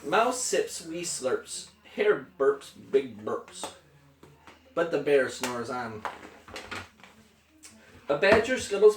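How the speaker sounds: lilting picture-book read-aloud, falling at line ends; story narration. A narrator's reading. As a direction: read a bedtime book to a small child. Reads picture book to child.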